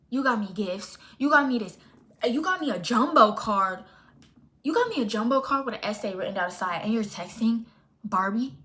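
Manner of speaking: loud indignant listing. Real, not acted. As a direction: pile up the grievances. Angry recounting Valentine's gifts.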